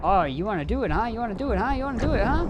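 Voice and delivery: sing-song taunt rising each time. Real, not acted. Streamer squaring up to an enemy player, sing-song taunt. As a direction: goad him like a playground bully.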